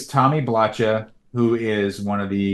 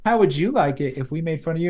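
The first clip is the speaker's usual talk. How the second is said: scolding Dorbat; 8 semitones higher, faster than usual. Retold or imitated. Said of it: "Lika's here too. Her read".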